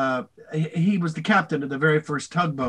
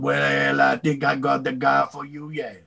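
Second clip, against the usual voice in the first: put-on Cajun accent. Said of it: "they needed a Cajun alligator".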